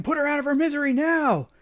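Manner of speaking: a doctor ordering the end; furious order; angry shout. Acted. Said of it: "he shouts at Keim".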